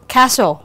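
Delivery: "casual" said as "castle", with no t; silent t. Shown as a demonstration. Teacher reading test words for students, silent t. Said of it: "không có phát âm".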